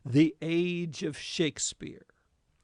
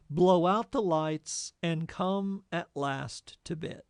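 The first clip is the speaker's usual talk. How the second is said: poem reading. Acted. Reads the sestet aloud.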